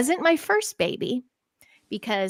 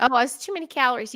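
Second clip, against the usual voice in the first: ironic echo; 2 semitones higher, faster than usual. Retold or imitated. Ironic echo of own reason.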